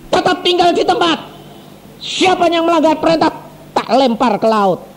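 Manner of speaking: a hint of a stern regent shouting; mock shouted order. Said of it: "bupatinya teriak-teriak pakai mikrofon".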